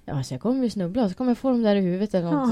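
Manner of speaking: mock-anxious inner monologue building up; quick, mounting worst-case fretting; retold worrying. Retold worst-case thoughts before running.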